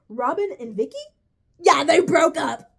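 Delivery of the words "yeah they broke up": mock wail. Mock wailing over breakup news.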